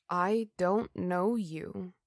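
soft, slow and flat; flat, expressionless. Acted. Jennifer's ghost flatly telling Adrian, soft and slow. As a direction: say it with no feeling at all. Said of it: "The statement was flat".

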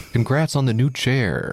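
sarcastic congrats. Pretend. Mocking friend's new chair.

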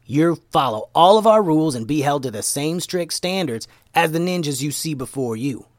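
lightly voiced strict mentor laying down rules; stern ninja mentor. Momo sets the rules.

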